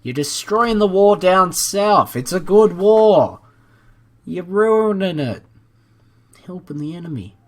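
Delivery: scolding Somalia for ruining the war, mock angry; mock outrage. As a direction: yell at the country for spoiling the fun.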